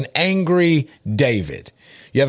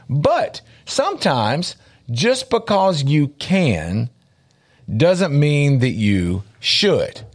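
slow emphasis; slower than usual. Real, not acted. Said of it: "Let me say that again".

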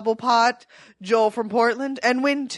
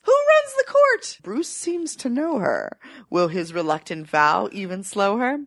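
rhyming recap. Acted. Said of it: "hit us up with your rhyming, riddling episode summary".

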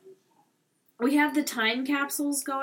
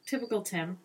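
whisper; 5 dB quieter than usual. Real, not acted. Fond whispered comment.

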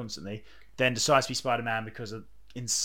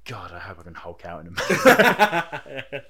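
laughing quote; 3 semitones lower, 9 dB louder, slower than usual. Acted. Voicing impatient gamer, laughing.

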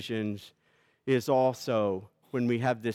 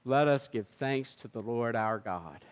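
solemn eucharistic prayer; liturgical prayer. Acted. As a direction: intone the communion liturgy. Pastor chants the eucharistic prayer.

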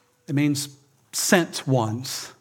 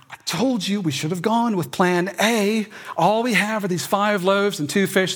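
vindicated; 4 semitones higher than usual. Retold or imitated. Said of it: "They must feel really vindicated".

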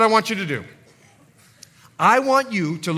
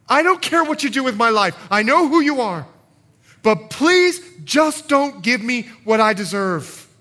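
humble pleading; 3 semitones higher, 4 dB louder than usual. Acted. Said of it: "Do you hear the humility in that?".

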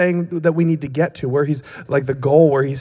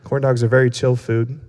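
relaxed and chill; 3 semitones lower than usual. Acted. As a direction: hang loose, no hurry in it. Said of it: "we were being all relaxed and chill".

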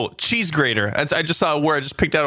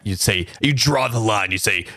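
ordinary talk

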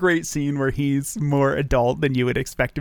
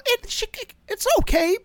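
grudging shrug. Real, not acted. Grudging verdict on the actress.

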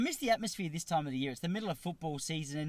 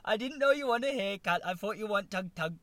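loud, high, hammed-up Asian accent; badly faked Asian accent, pitched up and blurted; mock Asian accent; 7 semitones higher, 9 dB louder than usual. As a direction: imitate a flustered apology in a rough Asian accent. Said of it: "do the Asian accent".

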